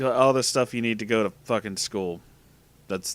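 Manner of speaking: ordinary delivery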